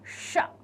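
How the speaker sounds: "शा" with tongue bent right back; retroflex sha. Shown as a demonstration. Teacher placing the tongue, "शा" as retroflex ष. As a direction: curl tongue fully inward on "शा". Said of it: "जीभ मुड़ेगी बिल्कुल अंदर".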